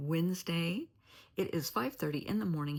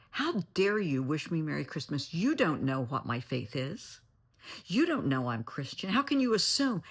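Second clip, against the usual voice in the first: insulted outrage; 3 dB louder than usual. Retold or imitated. Offended shopper snapping back at a Merry Christmas, indignant. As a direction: act out someone offended, punching the words. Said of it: "the other person got mad. They were insulted".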